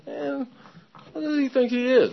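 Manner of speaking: high-pitched offended complaint; indignant griping. Retold or imitated. Newcomer grumbling as the man walks away, indignant. Acts out his resentment.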